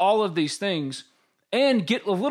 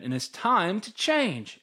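firm statement; 3 semitones higher, slower than usual. Shown as a demonstration. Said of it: "repeats the phrase for emphasis".

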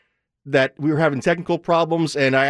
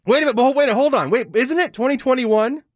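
mock surprise; 7 semitones higher than usual. Mock outrage at new year.

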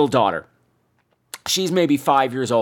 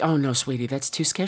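softer, gently refusing father; gentle dad; 5 dB quieter than usual. Retold or imitated. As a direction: play a dad gently saying no. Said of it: "the fellow's like".

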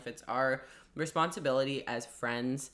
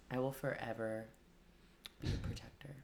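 barbarian; 2 semitones lower, 10 dB quieter than usual. Pretend. Mock barbarian threat.

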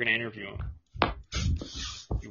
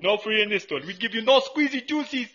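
mock vendor bickering; 11 semitones higher, 6 dB louder than usual.

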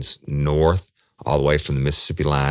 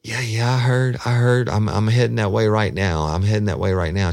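higher, louder, hyped-up man; amped up; 8 semitones higher, 5 dB louder than usual. Retold or imitated. Man leaving Walmart brushing her off, amped up. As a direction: rattle it off all wound up. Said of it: "really amped up".

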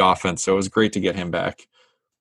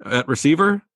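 higher-pitched, lightly acted excitement; mock eager rookie; 8 semitones higher than usual. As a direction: play a player pleased at the news, asking hopefully. Voices the called-up rookie's hopeful reply.

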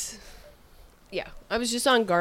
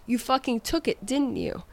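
accusing chef; 6 semitones higher than usual. Retold or imitated. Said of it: "And he said".

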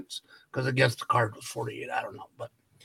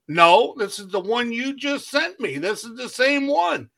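higher, rising exasperation, a touch of disbelief; exasperated protest; 8 semitones higher than usual. Retold or imitated. To the postal clerk about the returned package, mildly exasperated. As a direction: insist it's the same package, half laughing.

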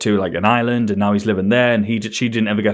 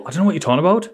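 higher, mocking innocent denial; 6 semitones higher, much faster than usual. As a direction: play dumb in a high mocking voice. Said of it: "and you go".

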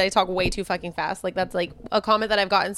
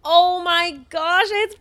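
gasping, high and loud delight; excited; 6 semitones higher, 4 dB louder, much slower than usual. Real, not acted. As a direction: gasp then squeal it's fall. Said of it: "excited about fall".

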